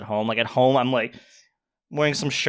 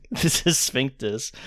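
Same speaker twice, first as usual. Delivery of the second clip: slow flat robot voice; slower than usual. Acted. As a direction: speak like a robot. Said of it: "why are you talking like a fucking robot".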